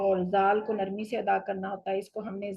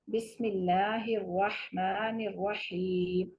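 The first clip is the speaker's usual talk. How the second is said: very slow measured bismillah, then halt; slow recitation with a stop; much slower than usual. Shown as a demonstration. Teacher shows the stop after the tasmiya. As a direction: recite it and pause. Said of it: "یہ پڑھا اور پھر ہم رک گئے".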